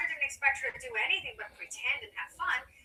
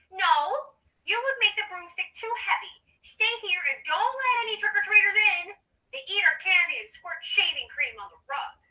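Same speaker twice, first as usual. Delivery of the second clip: high, loud refusal and orders; bossy sister; 6 semitones higher, 9 dB louder than usual. Acted. Polly orders Wendy to stay home, bossy. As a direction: lay down the law to a little sister.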